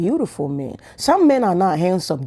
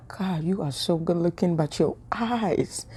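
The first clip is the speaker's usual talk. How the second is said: lovestruck murmur; 7 dB quieter, slower than usual. Retold or imitated. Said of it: "I'm like".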